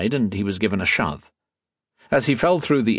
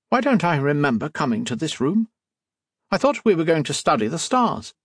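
put-on nervous young man; 7 semitones higher than usual. A narrator's reading.

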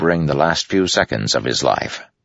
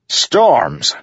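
louder, higher alarmed call; 8 semitones higher, 4 dB louder than usual. A narrator's reading. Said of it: "Adolin's voice called from behind".

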